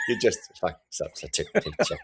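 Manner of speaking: campy comic impression, half laughing; Paul Lynde. Podcaster imitating how the trailer's line sounds, Paul Lynde impression. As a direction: stretch it out in a mocking celebrity voice. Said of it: "reminds me of Paul Lynde a little".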